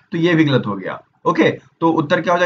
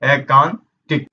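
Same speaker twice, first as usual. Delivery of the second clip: 1 drawn-out pronunciation; much slower than usual. Shown as a demonstration. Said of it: "ए वाला एकांतिक बिल्कुल सही है".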